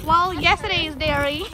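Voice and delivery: put-on Southern twang; light, hammed-up Southern accent. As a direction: answer in a playful Southern accent. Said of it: "Is that a Southern accent?".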